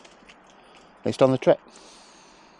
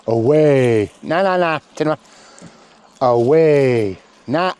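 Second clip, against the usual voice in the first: herding command; 5 semitones higher, 6 dB louder than usual. Real, not acted. Trainer sending the sheepdog away round the flock. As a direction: send her away with a long call.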